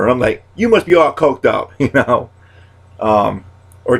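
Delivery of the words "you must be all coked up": much higher, louder teasing jab; pitched-up comic retort; high mock accusation. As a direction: needle them in a squeaky voice. Catchphrase fired at a friend.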